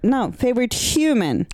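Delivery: "human" firmly emphasized; stress on human. Real, not acted. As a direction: correct them by leaning on the word "human". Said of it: "I said human".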